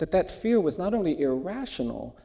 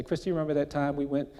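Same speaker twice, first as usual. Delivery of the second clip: laughing reminder; faster than usual. Retold or imitated. Teasing sister about the memory.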